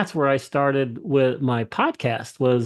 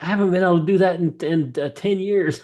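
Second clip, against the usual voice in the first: excited; 4 semitones higher than usual. Retold or imitated. Woman in pain retelling her relief.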